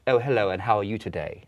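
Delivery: put-on mild old New York aristocrat accent, half British; lightly posh nineteenth-century New York greeting; a touch of half-British period accent. Shown as a demonstration. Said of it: "period accent ... half British".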